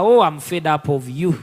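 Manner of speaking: fed up. Retold or imitated. Retelling his weariness of people.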